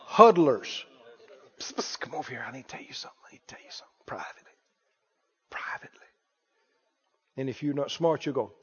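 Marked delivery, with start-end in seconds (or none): 1.6-6.1 stage whisper. Pretend. Acting out the whisperer again.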